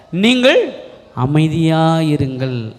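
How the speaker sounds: slow, drawn-out calming words dropping low. Acted. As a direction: quote Moses settling a crowd, slowly. Moses calms the frightened people.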